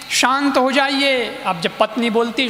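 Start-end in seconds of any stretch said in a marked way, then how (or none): 0.1-1.4 slow, soothing "शांत हो जाइए" with a falling end; slow calming plea. Retold or imitated. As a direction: gently hush an angry husband. Wife calms angry husband. (धीमे, शांत स्वर में "शांत हो जाइए")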